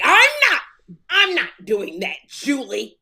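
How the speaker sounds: uptight rich man. Retold or imitated. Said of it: "That's what David Arnold talked like".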